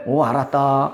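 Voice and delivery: low, brief voice of God; God answering. Acted. God replies to a repentant believer, low accepting voice. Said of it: "그러면".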